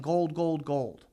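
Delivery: a mild mock yell that fades away; half-hearted yelling. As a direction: toss off the call without raising the voice much. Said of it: "he ran through the street yelling".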